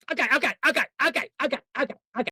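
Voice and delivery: lightly voiced rapid-fire catchphrase impression; a hint of a wiseguy patter, word repeated; Joe Pesci. Host showing off his one limited impression, lightly voiced wiseguy. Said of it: "all I can do with Joe Pesci".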